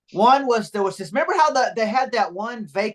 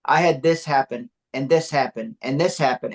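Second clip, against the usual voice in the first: slow, low, pleading homeless man; mock sob story; 7 semitones lower than usual. Homeless man begging guard to stay, slow low plea. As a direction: drag it out like a sad plea. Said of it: "an award-winning speech".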